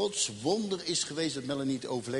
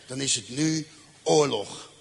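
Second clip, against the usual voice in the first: slow, louder resolve; vowing revenge on the gang, slow and firm; grim declaration; 4 dB louder than usual. Retold or imitated. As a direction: declare war, slowly and firmly. Declaring war on gangsters.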